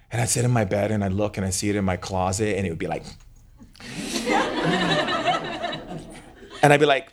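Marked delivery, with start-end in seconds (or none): 3.8-6.0 high, voiceless rasping cackle; imitated monster noise. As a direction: mimic the closet monster's eerie cackle. Monster's noise imitated in childhood story.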